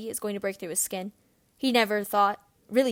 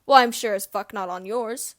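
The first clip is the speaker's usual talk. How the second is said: angry retort; 6 dB louder than usual. Acted. James snaps at Snape.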